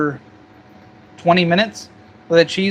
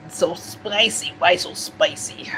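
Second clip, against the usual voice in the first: burning mouth; 4 dB quieter than usual. Real, not acted.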